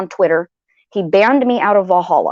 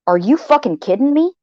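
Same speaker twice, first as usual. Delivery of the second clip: higher, rising disbelief on the whole question; a mock-furious rising "are you kidding me"; incredulous outburst; 6 semitones higher than usual. To herself about Purple's message, a higher incredulous rising outburst. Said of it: "What I was thinking was this".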